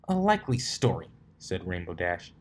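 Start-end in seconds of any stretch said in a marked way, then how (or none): 0.1-1.1 high sarcastic sneer; mock interrogator. Dash doubting the colt, hammed-up interrogator. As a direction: play the skeptical cop. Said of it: "how she imagined an interrogator".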